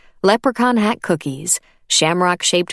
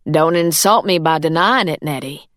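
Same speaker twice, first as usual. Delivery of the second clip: firm. Acted. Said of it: "Eleanor said firmly".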